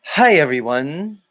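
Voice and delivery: a mild mock of a robotic show host greeting; Jason Lindgren impression. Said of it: "Maybe I could be Jason?".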